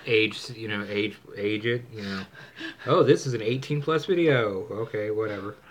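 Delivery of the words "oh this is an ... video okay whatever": mock realization, then dismissive; sarcastic. Real, not acted. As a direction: say it with sarcasm, louder at first then tossed off. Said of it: "sorry, the sarcasm is".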